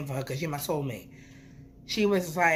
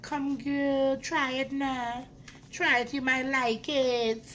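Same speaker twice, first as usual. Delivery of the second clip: coaxing; 7 semitones higher, slower than usual. Retold or imitated. Coaxing her mom to try.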